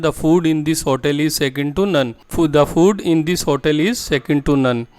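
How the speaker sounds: very slow and clearly spaced, word by word; slow model sentence. Shown as a demonstration. Teacher to Hindi-speaking students, modelling the English sentence slowly. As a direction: spell the sentence out slowly for learners. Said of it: "तो आप बोलते हैं".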